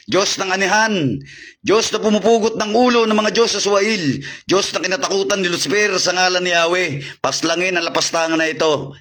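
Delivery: steady, forceful incantation; solemn invocation. Real, not acted. Exorcist calling on God to strike the spirit, solemn invocation. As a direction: invoke divine power as a command.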